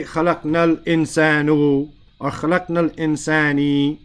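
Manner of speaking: quick, ending الْإِنسَانُ with a dhamma and then الْإِنسَانِ with a kasra; wrong vowel endings. Shown as a demonstration. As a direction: rattle off الْإِنسَانُ and الْإِنسَانِ as the mistaken forms. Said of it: "you'll never say".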